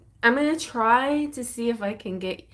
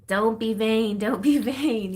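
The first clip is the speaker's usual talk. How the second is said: scolding inner voice; 3 semitones higher, 7 dB louder, slower than usual. Retold or imitated. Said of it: "I hear this message in my head".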